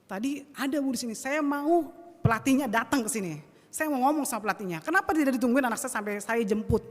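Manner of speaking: heated, emphatic protest; worked-up demand. Retold or imitated. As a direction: re-enact a mother demanding answers. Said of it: "bawaannya langsung emosi".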